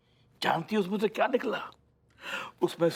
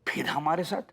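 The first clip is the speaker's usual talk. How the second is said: challenging echo. Acted. Father challenging the objector's complaint, pointed questioning echo. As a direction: echo it at ordinary pitch, ending on a rise. Throws back the objector's own words.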